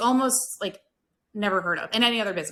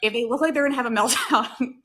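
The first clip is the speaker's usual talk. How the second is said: higher voice, amused and laughing; 5 semitones higher, 4 dB louder than usual. Real, not acted. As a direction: break into a laugh before "meltdown". Laughs while describing a server's meltdown.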